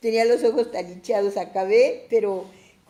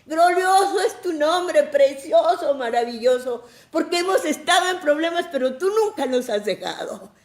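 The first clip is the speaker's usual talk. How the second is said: high, loud cry of worship, easing at the end; re-enacted ecstatic praise; fervent thankful praise; 7 semitones higher, 6 dB louder than usual. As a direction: pour out thanks to God at full voice. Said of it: "agradeciéndole a Dios".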